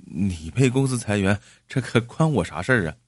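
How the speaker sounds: lightly stammered, halting protest; tongue-tied self-defence; nervous stammer. Acted. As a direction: stumble over the words, anxious and taken aback. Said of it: "结结巴巴地说".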